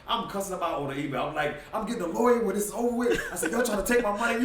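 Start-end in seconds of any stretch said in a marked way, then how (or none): 1.7-4.4 higher, louder, laughing through the rant; laughing mock rage at the exchange; mock outraged yelling. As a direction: replay the fight half laughing. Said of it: "You should have heard me".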